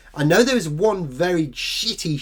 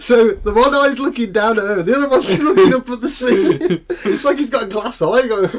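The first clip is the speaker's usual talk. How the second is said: laughing while talking; 7 semitones higher, 7 dB louder than usual. Real, not acted. Laughing at wonky contact lens.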